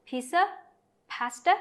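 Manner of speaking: Pizza and pasta each said with a rise; rising options. Shown as a demonstration. Teacher isolating the options, rising tune. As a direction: lift each option word. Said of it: "lên giọng vào các lựa chọn".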